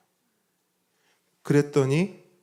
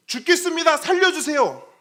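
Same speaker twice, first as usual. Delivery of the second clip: high, loud, panicked plea of a drowning man; desperate cry for help; 9 dB louder than usual. Retold or imitated. Disciples in the storm begging Jesus, a high loud panicked cry. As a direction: cry out as if going under the water. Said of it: "지금 당장 물에 빠져 죽게 생겼는데".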